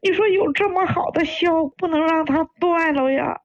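pleading through tears; crying. Real, not acted. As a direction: plead as you cry. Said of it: "您别哭了". (哭着恳求)

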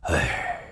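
soft, low sigh; long exhaled sigh. A narrator's reading. Newcomer finds the man he sought, long sigh. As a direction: let out a long breath as a sigh. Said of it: "长长吐了口气".

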